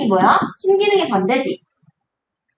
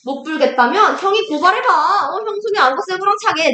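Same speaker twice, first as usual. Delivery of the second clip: lightly acted taunt, pitched higher; sarcastic; 6 semitones higher than usual. Teacher plays younger brother taunting the older one, sarcastic. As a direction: needle him, daring him to do it. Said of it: "아주 빈정거리고 있죠?".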